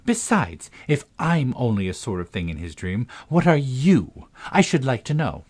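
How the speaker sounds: lightly voiced indignant girl, lifted pitch; a hint of affronted Alice. Alice argues back in dialogue.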